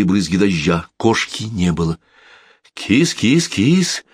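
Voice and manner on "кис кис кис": high coaxing kitty call; calling a cat. Acted. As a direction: coax the cat to come. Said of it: "позвала миссис Маккензи".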